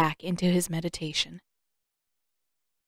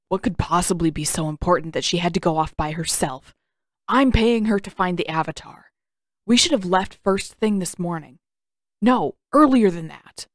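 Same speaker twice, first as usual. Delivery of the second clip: a lightly voiced restless prince, pushing back; impatient young prince; 3 dB louder than usual.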